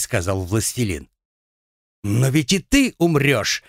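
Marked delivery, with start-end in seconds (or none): 2.0-3.6 hateful shout. Acted. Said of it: "с ненавистью выкрикнула Наташа".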